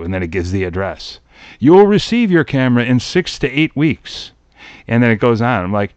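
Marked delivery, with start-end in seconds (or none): 1.6-4.3 lightly formal ad announcer; a hint of TV pitchman; commercial read. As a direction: read it like mail-order small print, measured and clear. Reads out a mail-order ad.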